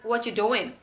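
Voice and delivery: 'What you doing' as 'whatchu doin'; dropped g. Shown as a demonstration. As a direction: drop the final g of 'doing' in 'What you doing'. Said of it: "ing-nya itu nggak diucapkan".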